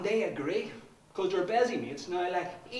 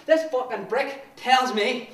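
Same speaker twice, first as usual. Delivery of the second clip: loud, higher, relentless shouting; fanatical ranting; 6 semitones higher, 18 dB louder than usual. Acted. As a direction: rally cry of hatred.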